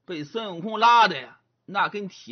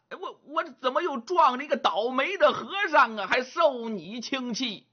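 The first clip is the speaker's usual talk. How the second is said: higher, fast, exasperated complaint; exasperated young man; 5 semitones higher than usual.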